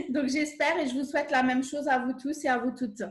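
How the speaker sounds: souhait dit à travers un rire léger; encore en riant. Real, not acted. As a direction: finir la phrase en riant encore un peu. Fin de présentation en riant. (l'invitée conclut sa présentation en riant)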